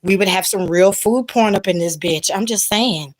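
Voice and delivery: raspy rasp like a certain singer; hoarse voice. Real, not acted. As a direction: talk through a hoarse throat. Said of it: "y'all getting the Eartha Kitt right now".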